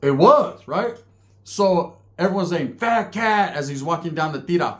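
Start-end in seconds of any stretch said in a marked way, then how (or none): 2.8-3.5 higher, drawn-out nickname call; imitated jeering call. Everyone on the tier hails the handcuffed man, jeering call. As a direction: imitate inmates calling down a tier.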